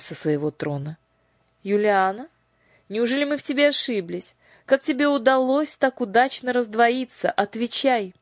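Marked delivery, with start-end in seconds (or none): 1.6-8.1 high, demanding interrogation; stern sorceress. A narrator's reading. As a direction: demand an answer from the throne. Lady Batp demands.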